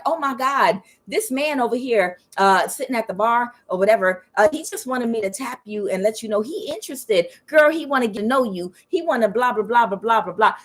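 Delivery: put-on excited girlfriend quote, tailing into blahs; eager matchmaking friend. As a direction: gush like a friend setting up a date. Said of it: "she was like".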